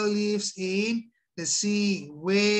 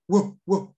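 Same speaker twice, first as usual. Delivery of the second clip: spoken dog woofs, two short bursts; dog bark; 2 semitones lower, 4 dB louder than usual. Shown as a demonstration. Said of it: "What animal sound can you make? ... Like a dog".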